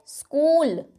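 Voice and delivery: "स्कूल" with a drawn-out long oo. Shown as a demonstration. Teacher marking the long vowel for students. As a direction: stretch the oo in "स्कूल". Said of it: "ये long sound है".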